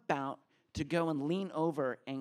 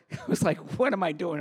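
laughing; 4 semitones higher, 8 dB louder, faster than usual. Retold or imitated. Laughing at the absurd date.

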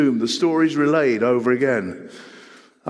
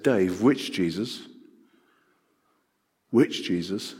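steely challenge; 4 semitones lower, 4 dB quieter, slower than usual. Retold or imitated. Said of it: "with that steely American look".

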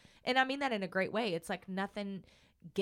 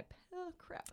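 choking up; 9 semitones higher, 15 dB quieter than usual. Real, not acted. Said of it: "the tears are already coming".

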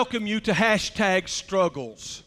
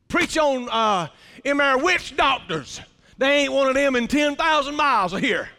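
put-on old country accent. Fella answers the pastor's question on what to preach, old accent. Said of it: "in his old accent".

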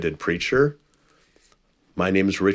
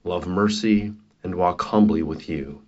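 closing prayer. Acted. Preacher ending his prayer to the congregation, reverent and measured. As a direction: close the prayer gently and reverently.

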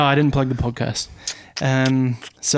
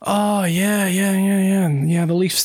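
higher voice, mock agreeing driver; string out the yeahs as the driver, pitched up; imitated Canadian driver; 6 semitones higher, slower than usual. Driver reacting to Toronto playoff talk, imitated in higher voice. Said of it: "And he's like".

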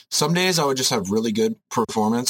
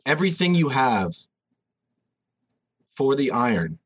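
intense gym bro; 4 semitones higher than usual. Acted. Intense gym-bro motivational rant.

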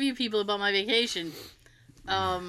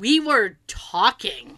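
slow, louder, drawn-out protest; insistent denial; 6 dB louder, much slower than usual. Retold or imitated. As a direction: stretch it out and push each word. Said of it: "I just got really insistent".

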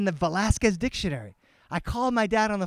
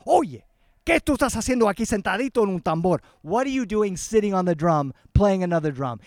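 raised voice, mild retold scolding; retold yelling; 4 dB louder than usual. Brother yelling at the boy on the drum, mock scolding. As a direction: scold him in a mock yell. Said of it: "he started yelling at my son".

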